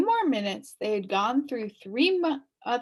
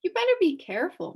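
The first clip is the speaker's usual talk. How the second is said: advised; 10 semitones higher, 4 dB louder, faster than usual. Acted. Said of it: "Milo advised".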